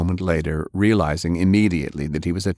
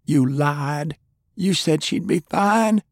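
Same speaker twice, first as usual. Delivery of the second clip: put-on high girl's voice, accusing shout; Fay shouting at Lance, high and accusing; 9 semitones higher, slower than usual. A narrator's reading. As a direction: hurl it at him like a betrayed kid. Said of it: "Fay shouted".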